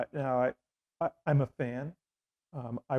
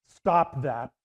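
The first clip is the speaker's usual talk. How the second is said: curt rebuke; 5 dB louder than usual. Retold or imitated. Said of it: "and she's".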